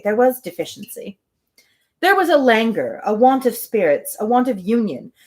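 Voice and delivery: even, measured reading of a classic novel; story narration. Acted. Host reading Emma aloud to her livestream, calm narration. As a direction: read it like an audiobook, steady and clear.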